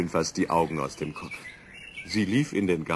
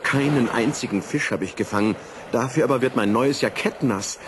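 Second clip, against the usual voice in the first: lightly voiced fretting professor, a touch higher; a hint of a grumbling old professor; fussy professor; 5 semitones higher than usual. Professor grumbles about his wet jacket, lightly voiced.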